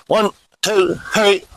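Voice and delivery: brisk push-up count, numbers close together; snappy drill count; quick cadence. Shown as a demonstration. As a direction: count the reps off quickly and evenly. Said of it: "pretty quick cadence on the push-ups".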